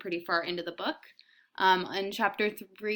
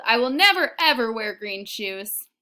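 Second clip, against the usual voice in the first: put-on stubborn child; 4 semitones higher, 10 dB louder than usual. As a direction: dig in her heels. Kirsty wailed.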